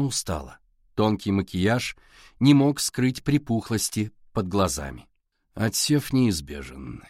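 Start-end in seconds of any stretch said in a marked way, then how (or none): 5.5-7.0 slow, stern and low; cold and final. A narrator's reading. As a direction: lay it down slowly like a verdict. Stern official dismisses the student. (холодно и медленно)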